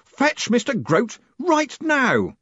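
slow, high, loud yell; screamed order. A narrator's reading. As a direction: yell the order, dragging out the words. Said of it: "Moist von Lipvig's scream".

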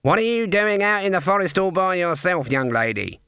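put-on voice, high then falling; old Granny witch. A narrator's reading. Old witch bending down to a child, grandmotherly questioning. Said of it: "Granny Weatherwax bent down".

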